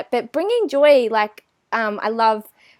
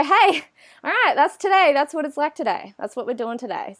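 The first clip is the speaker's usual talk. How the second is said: upbeat acceptance; 5 semitones higher than usual. Pretend.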